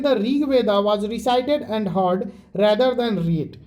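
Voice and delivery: very slow, deliberate reading, each word spaced; slow textbook reading. Shown as a demonstration. Teacher reading the textbook line to students, very slow. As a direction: read it out so students can follow every word.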